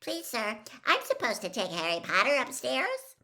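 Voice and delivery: put-on a keen little boy interrupting class; eager young boy. Young boy asking the teacher for Harry, eager and high. Colin voiced by narrator.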